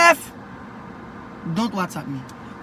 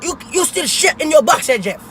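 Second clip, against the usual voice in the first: put-on thick African accent, nagging his son; strong African accent. Son asks why dad's African accent is so strong. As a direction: lay the African accent on heavy. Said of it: "Why your accent so strong?".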